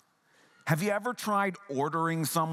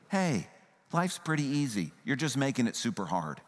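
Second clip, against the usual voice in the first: mildly dismissive, easing lower and casual; unconcerned tone; 3 semitones lower than usual. Shown as a demonstration. Preacher voicing a wrongly heard Jesus, mildly dismissive. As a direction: shrug it off lightly. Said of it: "the tone that he is saying this in".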